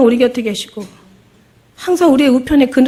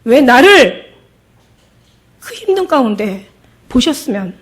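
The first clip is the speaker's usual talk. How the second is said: angry reproach; 3 semitones higher, 4 dB louder than usual. Retold or imitated. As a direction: hurl the why at Jesus, voice rising. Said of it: "여자가 막 화를 내는 거예요".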